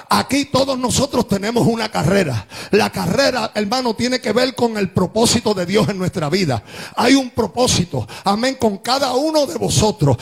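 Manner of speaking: emphatic, projected sermon delivery; forceful preaching. Acted. Preacher telling the congregation about their race, forceful preaching. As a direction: proclaim it firmly to the whole room.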